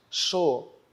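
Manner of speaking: "Chocolate" as cho... co... la... te, spaced out; slow, syllable by syllable. Shown as a demonstration. Teacher classifying the word for pupils, slowly split. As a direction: pause after every syllable. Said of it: "a gente classifica falando lentamente".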